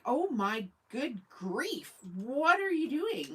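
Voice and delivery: slow, drawn-out mock disbelief; imitating her own slow, stunned reaction; retold exasperation. Telling viewers about the waitress, in slow mock dismay. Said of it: "And I'm like".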